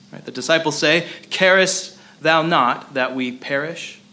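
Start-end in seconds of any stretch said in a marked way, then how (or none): 1.3-4.0 slow, annoyed plea, each word weighed; frustrated annoyance. Retold or imitated. Preacher voicing disciples' frustrated question, slow and annoyed. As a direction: let the disciples' irritation show, unhurried. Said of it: "You can almost hear the frustration and annoyance".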